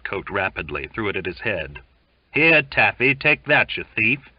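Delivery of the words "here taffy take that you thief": shouting. A narrator's reading. Sailor throws coat, insults.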